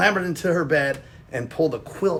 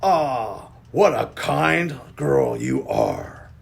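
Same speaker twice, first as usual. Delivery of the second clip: sly smiling wolf; much slower than usual. Acted. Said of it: "smiled the wolf".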